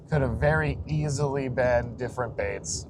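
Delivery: talking while the car bounces; on a bumpy road. Real, not acted. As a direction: voice jolted by road bumps. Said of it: "sorry about the bumps".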